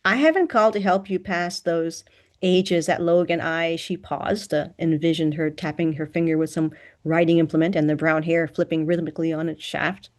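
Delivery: ordinary delivery, nothing marked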